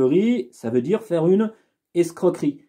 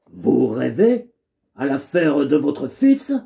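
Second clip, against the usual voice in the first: sly valet voice; 2 semitones lower than usual. Acted. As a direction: ask with feigned concern. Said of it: "je lui ai donné une voix un peu particulière".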